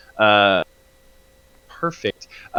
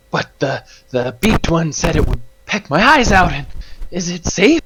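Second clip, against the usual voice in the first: higher-pitched worried creature voice; timid dragonfly; 6 semitones higher than usual. Acted. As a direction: ask anxiously as a talking dragonfly. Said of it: "you're gonna hear".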